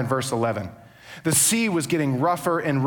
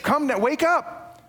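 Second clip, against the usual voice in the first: urgent captain; 6 semitones higher than usual. Acted. Captain shaking Jonah awake.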